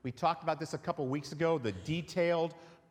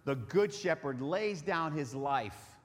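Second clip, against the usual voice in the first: scripture reading; 3 semitones higher than usual. Acted. Reading John ten aloud.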